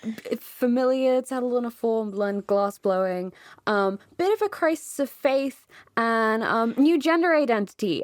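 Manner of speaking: falsely casual, starting high and loud; awkward. Acted. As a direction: rattle off big life news awkwardly, avoiding eye contact. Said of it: "then kind of awkwardly sort of".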